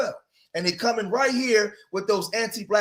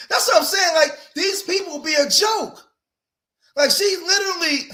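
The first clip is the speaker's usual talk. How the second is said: exasperated scoff; 11 semitones higher, 5 dB louder than usual. Real, not acted.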